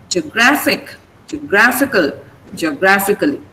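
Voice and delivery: geographic, geographical, geographically, each stressed on GRA. Shown as a demonstration. Teacher checks class gets it, stressing GRA each time. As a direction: hit GRA in each longer form. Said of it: "the stress remains on gr".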